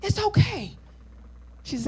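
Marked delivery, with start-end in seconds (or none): 0.0-0.8 put-on elder woman gently comforting a scared girl; gentle and kind. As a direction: comfort her like a child. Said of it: "very gently and kindly says".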